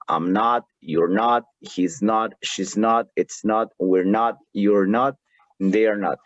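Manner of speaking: "I'm not" and "you're not" said as short fused units; teacher drilling negative contractions; contracted negatives. Shown as a demonstration. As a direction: clip each contraction tight before the not. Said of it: "cambia la pronunciación".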